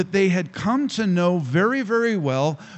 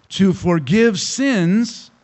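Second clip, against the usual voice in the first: slow, deliberate, louder; emphatic slow reading; 2 semitones higher, 4 dB louder, much slower than usual. Acted. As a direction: spell it out for the congregation. Preacher completes verse after "what?.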